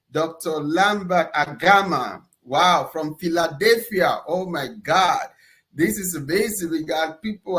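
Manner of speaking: ordinary talk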